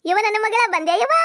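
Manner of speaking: high, eager call to a daughter; excited mother's welcome. Acted. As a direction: call out joyfully to your girl. (ಮಗಳನ್ನು ಕರೆಯುವ ಖುಷಿಯ ಕೂಗು)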